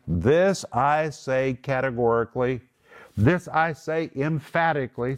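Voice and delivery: measured, mildly commanding proclamation; lifted commander's voice. Retold or imitated. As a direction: declare it firmly, like a commander. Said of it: "the commander has now lifted his voice".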